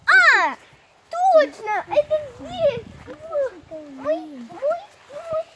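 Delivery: loud, high cry of discovery; excited shout. Real, not acted. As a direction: shout it out, thrilled to find it. Child finds the clue spot.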